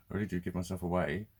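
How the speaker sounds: normal talking voice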